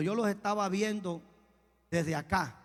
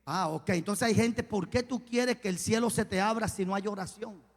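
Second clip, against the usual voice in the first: ordinary talk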